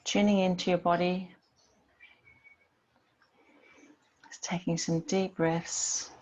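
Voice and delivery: calm yoga centring with long pauses; guided meditation. Real, not acted. Yoga teacher settling the class into breath and body, guided meditation. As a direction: settle them gently, leaving space between phrases.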